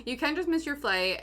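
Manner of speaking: laughing plea. Retold or imitated. Repeating a plea to departing parents, laughing. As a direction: say it through the tail of a laugh.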